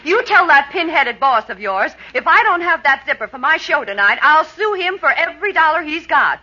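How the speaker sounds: angry threat. Acted. Angry customer threatening to sue the boss, indignant. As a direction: scold him fast and sharp.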